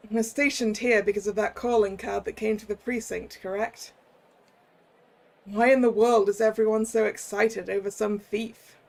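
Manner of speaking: put-on detective's northern English accent drifting into Cockney; northern accent slipping to Cockney. Detective questions the chief about the crowd, northern accent slipping into Cockney. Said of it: "I feel like I'm slipping too, too far back to Cockney there".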